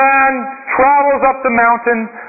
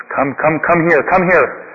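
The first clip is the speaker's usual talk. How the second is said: lower, calm monk voice; a lightly voiced, lowered sage; wise old monk; 5 semitones lower than usual. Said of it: "Monk says".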